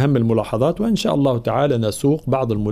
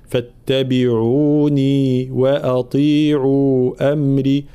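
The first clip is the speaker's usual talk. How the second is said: slow recitation with every long vowel held equally; even natural madd; much slower than usual. Shown as a demonstration. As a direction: hold each madd the same length. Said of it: "مدود متساوية بمقدار المد الطبيعي". (مدود طبيعية متساوية)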